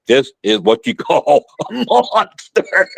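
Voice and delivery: high, slow, put-on thought voice; drawn out in awe at the monster; inner thought. Thinking to himself at the monster, slow awed voice. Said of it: "I knew in my mind".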